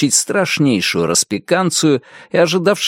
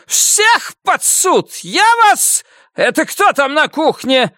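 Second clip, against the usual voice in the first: high, slow screaming officer; shrieking furious major; slower than usual. A narrator's reading. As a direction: shriek the accusations down the line. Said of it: "взвизгнул он".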